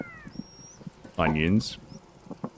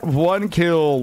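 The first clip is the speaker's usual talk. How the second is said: high, loud victory yell; hype celebration; 8 semitones higher, 3 dB louder, much slower than usual. Real, not acted. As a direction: cheer the one-shot kill. Celebrating a kill.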